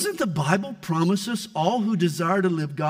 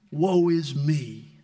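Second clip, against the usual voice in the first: self-pity; 4 semitones lower, much slower than usual. Pretend. Mocking pastors' self-pity.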